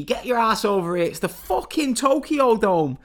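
high, loud hammed-up scream at his partner; mock screaming. Reviewer retelling a wrestler screaming at his partner, loud mock scream. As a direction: bellow it like the biggest night of your life.

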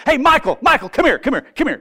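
Jesus excitedly calling the archangel over, high and loud; eager calling. Retold or imitated. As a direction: call Michael over excitedly. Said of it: "picture Jesus doing this".

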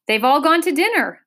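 high, loud announcement; lightly pompous bug's announcement; announcing. A narrator's reading. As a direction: announce it to everyone. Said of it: "announced the humbug".

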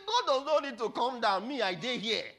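high, loud defiant boast; booming acted proclamation; forceful declaration. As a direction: thunder it at the challenger. Papa's reply repeated at full voice.

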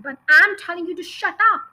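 loud, fast furious roar. Acted. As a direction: blast it at the child. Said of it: "the Trunchbull roared".

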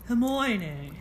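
British "Her-moy-nee"; Ron's British accent. Acted. Co-host copying how Ron says it, British accent. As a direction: imitate a British boy saying the name. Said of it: "That's how Ron says it".

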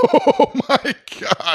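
high, drawn-out disbelief; shocked groan. Real, not acted. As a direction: react appalled, stretching the words way up high. Co-host reacts to a gross detail.

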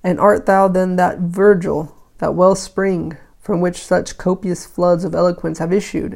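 put-on measured recitation of old verse; declaimed lightly, pausing between phrases; verse reading. A narrator's reading. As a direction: read the poem out with firm phrase openings. Reads the poem aloud.

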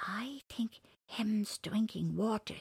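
cheeky rabbit voice. Acted. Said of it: "said the cheeky little rabbit".

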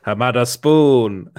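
slow, drawn-out echo of the clip; clip imitation. Streamer mimicking the burger video he just played, drawn-out imitation.

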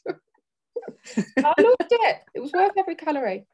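confessing a treat breakfast with loud, stretched-out delight; gleeful delight. Real, not acted. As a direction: savour it with loud, drawn-out glee.

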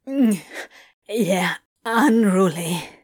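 shaky undertone. A narrator's reading. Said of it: "Crowley managed in a shaky undertone".

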